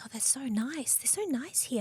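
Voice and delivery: lifted, soft, sweetly unaware; naive delight. Retold or imitated. Repeating her thanks about the kind clinic staff, softly naive. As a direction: play it innocent and pleased.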